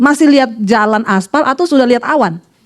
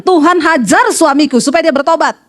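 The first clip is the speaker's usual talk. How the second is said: firm, coaching demonstration of a prayer; prayer being taught; 2 semitones higher than usual. Shown as a demonstration. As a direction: model the prayer emphatically for her. (doa tegas yang dicontohkan)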